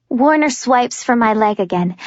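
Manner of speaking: ordinary delivery, nothing marked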